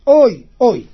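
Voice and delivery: loud mock wail; imitated cry of anguish; acted crying out. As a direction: wail out a retold oy. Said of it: "הוא התחיל לצעוק".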